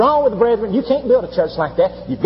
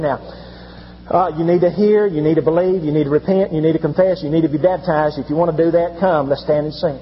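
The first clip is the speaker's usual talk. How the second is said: casual; 6 semitones lower than usual. Retold or imitated. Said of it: "just kind of casually saying".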